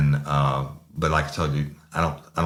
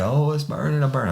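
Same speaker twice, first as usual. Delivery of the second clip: high mock wail of pain; imitated crying; 11 semitones higher than usual. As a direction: mimic a man whimpering as it burns. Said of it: "he's crying".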